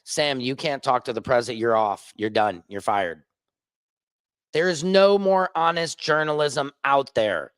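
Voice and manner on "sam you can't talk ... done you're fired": firing the reporter, lightly voiced; imitated boss firing him. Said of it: "What happens if I was hired by C B S".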